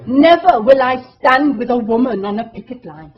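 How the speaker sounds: loud, bad Welsh accent. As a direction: crap Welsh accent, shouted out. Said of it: "excuse my Welsh accent, it's crap".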